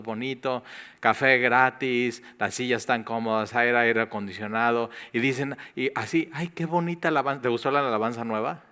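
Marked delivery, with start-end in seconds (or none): 6.3-7.4 higher, quicker mock gush; gushing newcomer. Newcomer gushing about the new song, quick mock delight. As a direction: rattle it off like someone charmed by the music.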